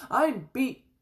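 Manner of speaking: loud, high cry of exhaustion; gasped. A narrator's reading. George gives up the jigging contest to Grandma, loud high gasp. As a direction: cry out in spent surrender. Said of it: "threw up both arms and gasped".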